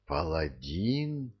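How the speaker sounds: soft, slow, breathless question; a stunned, faint whisper of one word; barely audible whisper. A narrator's reading. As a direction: hush it almost to nothing. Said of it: "еле слышно прошептала она".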